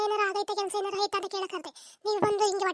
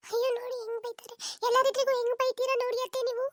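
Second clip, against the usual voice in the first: raised, high-pitched complaint; indignant protest; 5 semitones higher than usual. Acted. Daughter-in-law objects to mother-in-law's scolding, indignant.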